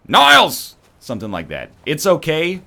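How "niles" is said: much higher and louder, a theatrical exasperated "Niles!"; Frasier Crane impression. Streamer repeats his Frasier Crane impression for chat, a hammed-up loud call. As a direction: bellow it like a fussy sitcom brother. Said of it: "If you need to hear it one more time".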